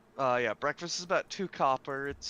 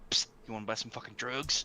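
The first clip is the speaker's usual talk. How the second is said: shady dealer whisper-pitch; low secretive sales pitch, lightly voiced; secretive raspy sales murmur; 4 semitones lower, faster than usual. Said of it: "Guy in the corner of the bar".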